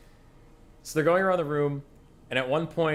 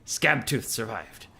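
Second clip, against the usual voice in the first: Skaven warlord. Acted. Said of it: "he goes".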